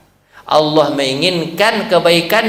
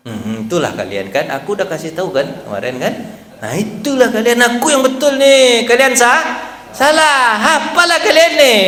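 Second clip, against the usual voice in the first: mock boastful Umar; 4 semitones higher than usual. Preacher imagines a boastful Umar lecturing his friends, teasing and smug. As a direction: gloat playfully, building up.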